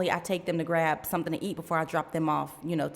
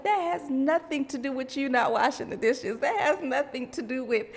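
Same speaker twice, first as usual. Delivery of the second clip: retold defensive retort; 6 semitones higher than usual. Acting her defensive retort to daughter.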